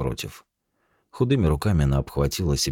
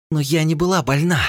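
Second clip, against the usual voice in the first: tearful hiss; 14 semitones higher, 5 dB louder than usual. Acted. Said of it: "Со слезами на глазах прошипела".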